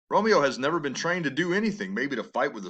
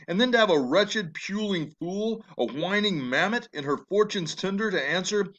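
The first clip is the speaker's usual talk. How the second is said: scornful father; 5 semitones higher than usual. Acted. Capulet sneers at the puling fool.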